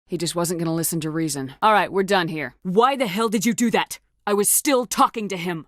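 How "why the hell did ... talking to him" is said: raised, sharp demand for an answer; furious that the talk was cut short; angry outburst. Acted. Squadmate confronts the commander, angry and raised.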